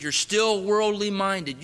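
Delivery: slow, loud repeat of the charge. Retold or imitated. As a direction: press the point home, slowly. Robber repeats, insisting.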